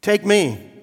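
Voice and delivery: high, loud boastful cry; proud gold vessel. Acted. Gold vessel begs the master to choose it, high proud cry. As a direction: show off, beg to be chosen. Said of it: "cried the gold one".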